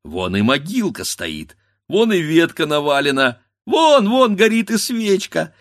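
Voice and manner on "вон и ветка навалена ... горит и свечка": rising, louder with growing excitement; eager whisper-to-shout of discovery; excited spotting. A narrator's reading. Grandfather spotting the candle on the grave, excitedly.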